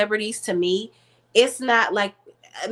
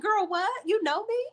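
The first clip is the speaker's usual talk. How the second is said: amazed disbelief; 13 semitones higher, 4 dB quieter than usual. Retold or imitated. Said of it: "I said".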